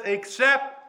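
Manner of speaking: "Except" pitched high and set apart; stress on EXCEPT. Shown as a demonstration. Preacher drawing congregation to Jesus's word, "Except" emphasised. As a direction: hit "Except", then stop. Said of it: "I want to emphasize that word".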